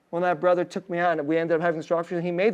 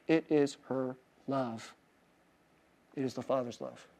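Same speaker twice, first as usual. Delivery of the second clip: hushed; 7 semitones lower, 12 dB quieter than usual. Real, not acted. Sermon climax on love.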